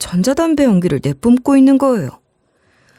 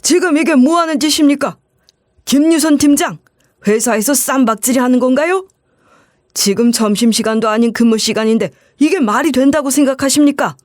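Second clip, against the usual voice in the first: stern scolding man; 3 semitones higher than usual. Retold or imitated. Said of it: "이렇게 소리치는 남자 목소리".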